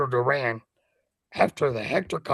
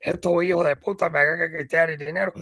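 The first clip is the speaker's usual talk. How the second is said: in Spanish; 2 semitones higher, faster than usual. Retold or imitated. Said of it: "he said it in Spanish".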